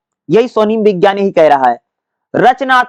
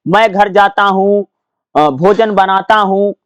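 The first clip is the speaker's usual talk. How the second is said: slow example; slower than usual. Shown as a demonstration. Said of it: "जैसे".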